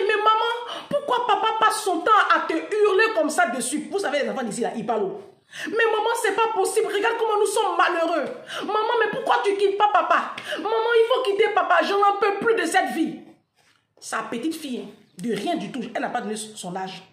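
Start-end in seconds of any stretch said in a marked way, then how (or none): 0.1-3.9 put-on child's plea. Child voiced in retold story. 5.7-13.2 put-on high, pleading little girl voice, half laughing; child pleading. Storyteller voicing a small girl begging her mother to leave.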